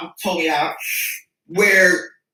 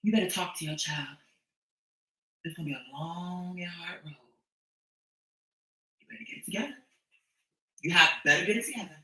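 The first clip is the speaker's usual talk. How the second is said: mock stern warning; 4 semitones lower, 13 dB quieter than usual.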